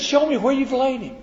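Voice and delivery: high and loud, pleading to be shown the grave. Acted. Preacher voicing Jesus asking where Lazarus lies, high and loud.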